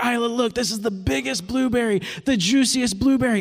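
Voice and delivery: mock hype for a toddler, bright and eager; playful dad building excitement. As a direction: sell the biggest blueberry to a child. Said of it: "I'm building it up".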